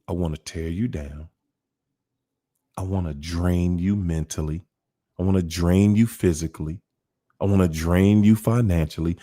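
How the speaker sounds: low, menacing voice of a narc; sinister narc voice. Retold or imitated. Voicing a narc's inner plan to the listener, low and menacing.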